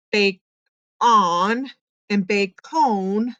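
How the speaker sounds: "bake on" with short O, "bake cone" with long O; wrong vowel tries. Shown as a demonstration. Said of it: "both of them didn't sound right".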